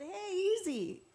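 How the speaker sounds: high, drawn-out "easy" in mock protest; startled protest. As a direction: imitate someone reacting to a sudden slap. Retold reaction to being slapped.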